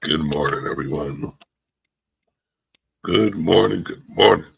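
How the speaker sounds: raspy, hoarse voice. Greeting the chat the morning after drinking: raspy voice. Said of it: "my voice is raspy".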